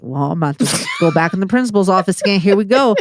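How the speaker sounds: fast mock shout, half-laughing. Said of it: "all I thought was like".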